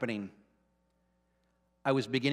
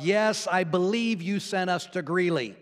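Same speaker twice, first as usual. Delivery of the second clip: higher, slow, emphatic yes; retold out-loud answer to God; 4 semitones higher than usual. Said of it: "So I said out loud".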